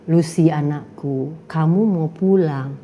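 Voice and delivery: slow, low calm voice from above; lightly voiced divine call; God's voice. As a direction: speak gently like a heavenly voice. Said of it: "Ada suara keluar".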